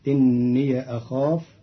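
إني as inniya before أخاف; fatha on the ya. Shown as a demonstration. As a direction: end إني on a short ya, then أخاف. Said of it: "بفتح الياء عند قالون".

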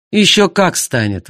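husband insisting to the narrator; retort. Acted. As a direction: press the point hard. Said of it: "возразил Артур".

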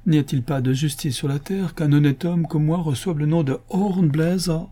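high, wailing protest; aggrieved lament. Acted. Honest man protesting the name Hornbläser, aggrieved. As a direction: plead against a great injustice.

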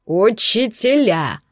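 slow, one syllable at a time. A narrator's reading. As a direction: spell it out mockingly. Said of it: "по слогам произнёс муж". (по слогам)

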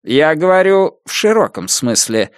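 lightly high, dignified reply; with wounded dignity. Acted. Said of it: "с достоинством произнёс Тачино". (с достоинством, чуть выше)

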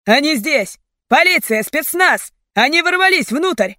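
high, alarmed shouting; panicked warning. A narrator's reading. Captor warning the gang of police, panicked shout.

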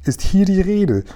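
slow, high-pitched reproving question; reproachful. A narrator's reading. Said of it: "fragte die Königin in tadelndem Ton".

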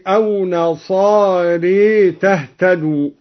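نصاري ending in a long "ee/eh", "nasaaree"; imala after ra. Shown as a demonstration. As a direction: tilt the alif after the ra of نصاري toward ya. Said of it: "وأمال الألف بعد الراء".

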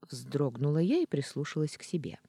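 ordinary delivery

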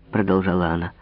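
ordinary delivery, nothing marked

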